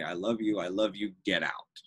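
a light, teasing send-off with affection; mock shooing them out, but fondly; jokingly. Shown as a demonstration. Director tells students at end of class, lightly joking. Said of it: "I do it kind of jokingly".

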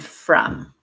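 from said clearly; teacher models the word. Shown as a demonstration.

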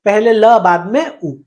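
"पहले ल, बाद में उ" with each sound isolated; syllable sounded out. Shown as a demonstration. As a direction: lean on "ल", then drop to a separate "उ". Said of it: "बोलो, आप बोल के देखो".

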